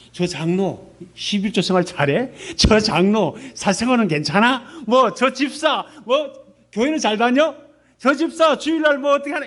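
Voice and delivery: imitating a nosy churchgoer picking faults; mock nosy church gossip. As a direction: play the snooping accuser. Mimics gossiping church accusers.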